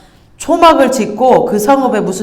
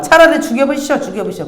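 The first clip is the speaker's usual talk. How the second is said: higher, petulant whining to God; whiny Jonah; 5 semitones higher than usual. Retold or imitated. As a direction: whine like a sulky child. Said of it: "막 이런 말을 잘 해요". (신세 한탄하며 투덜대는 요나)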